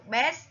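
bears ending in a "z"; final Z sound. Shown as a demonstration. Teacher groups words by ending, bears with final "z". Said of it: "là âm giờ".

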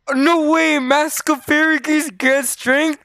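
high, loud, amazed reaction; excited disbelief. Real, not acted. Player learns the mask grants strength, excited disbelief. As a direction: exclaim as if it's too good to be true. Reads out an unexpectedly great item.

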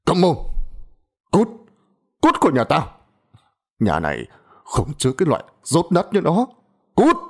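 high, shouting expulsion; furious father. A narrator's reading. Father drives daughter out of the house, shouting. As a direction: throw her out with a roar.

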